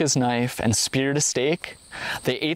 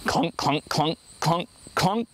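knife clunking on stone; 4 semitones higher than usual. A narrator's reading. First man's knife finds only stone, rising mock clunks. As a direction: tap out the empty stone, puzzled. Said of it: "reached out with his own knife".

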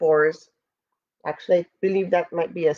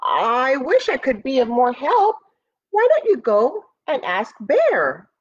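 lightly voiced boar, higher than narration; excuse-making boar; 5 semitones higher than usual. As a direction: brush someone off apologetically in a raised voice.

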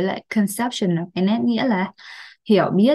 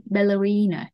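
"Ballerina" as "ba-lə-REE-na", falling at the end; stress on third syllable. Shown as a demonstration. Teacher pointing out word stress, "Ballerina" stressed on the third syllable. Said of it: "trọng âm rơi vào âm thứ ba".

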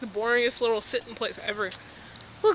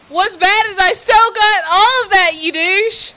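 laugh-crying; 9 semitones higher, 12 dB louder, slower than usual. Real, not acted.

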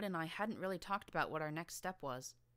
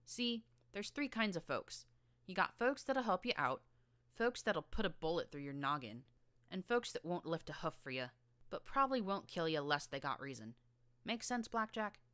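a lightly voiced scrappy young filly, higher; tough filly; 3 semitones higher, 3 dB louder than usual. Filly explaining the wasteland to Blackjack, lightly higher and scrappy. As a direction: streetwise kid laying it out.

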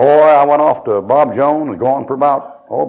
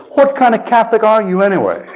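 high-pitched, incredulous retold question; mock bafflement; 7 semitones higher than usual. Baffled Catholic finally challenges the preacher, mock incredulous. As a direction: imitate someone utterly baffled, voice raised in pitch.

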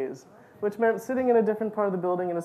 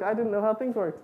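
ordinary talk

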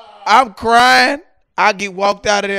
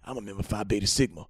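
softer, lower confiding tone; counselor's voice; 3 semitones lower, 5 dB quieter than usual. Retold or imitated. Church counselor confides to the young man, softly. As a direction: lean in and confide.

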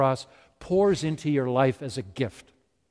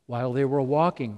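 While they were walking run off quickly and lower; quick plain repeat; 3 semitones lower, faster than usual. Shown as a demonstration. Preacher repeating the miracle, quick and unstressed. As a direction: toss While off fast, no stress.

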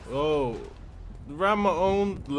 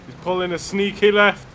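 louder alarmed repeat; plain, louder; 5 dB louder than usual. Real, not acted. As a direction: call it out louder.

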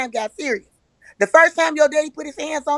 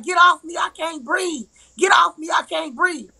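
higher-pitched plea, re-enacted; mild panic in a retold struggle; 4 semitones higher than usual. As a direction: act out pleading to be let go. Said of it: "I'm panicking".

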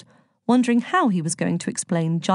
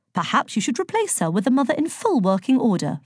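slightly higher, earnest know-all; lightly voiced literal-minded suggestion; Virgo, helpfully tactless; 5 semitones higher than usual. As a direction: offer a practical fix with no tact.

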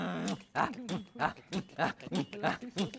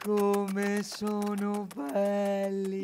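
dreamy sigh; much slower than usual. Acted. Swooning over the lovers.

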